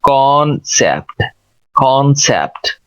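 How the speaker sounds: "कॉन्सेप्ट" slowly, with a rounded "aw" in "कॉन"; careful rounded vowel. Shown as a demonstration. Teacher modelling a common word, careful "कॉन्सेप्ट". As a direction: round the first vowel of "कॉन्सेप्ट", two clear syllables. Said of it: "इसको कैसे बोलेंगे".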